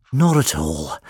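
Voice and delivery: breathless, strained; gasping. Acted. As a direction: gasp it out. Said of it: "the doctor managed to gasp".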